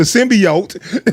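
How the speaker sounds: "symbiote" said as sim-bee-ote; "symbiote", middle syllable rhyming with see; mispronounced as in trailer. Retold or imitated. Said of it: "they said that shit wrong".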